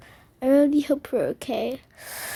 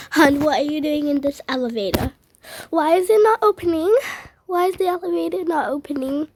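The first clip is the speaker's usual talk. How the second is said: fast, higher alarmed questions; panicked asking; 3 semitones higher, faster than usual. Acted. Mother finding her daughter stuck in the elevator, alarmed.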